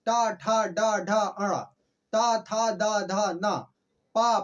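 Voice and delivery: each consonant said slowly and clearly; consonant recitation. Shown as a demonstration. Teacher reciting the Hindi consonant list for students. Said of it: "जिसमें का".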